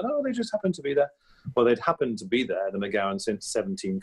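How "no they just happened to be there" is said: imitating his father, a little higher; lightly voiced dad explaining; a hint of his father's breezy excuse. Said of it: "he always said".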